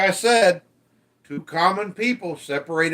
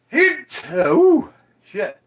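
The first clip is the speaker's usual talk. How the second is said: sudden yelp; 6 semitones higher, 6 dB louder, much slower than usual. Real, not acted. Sudden game exclamation.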